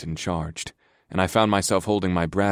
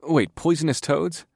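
alarmed; 8 semitones higher than usual. A narrator's reading. Alarmed realisation.

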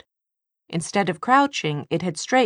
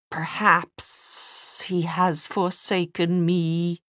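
demon voice; 2 semitones higher, much slower than usual. A narrator's reading. Demon character voice.

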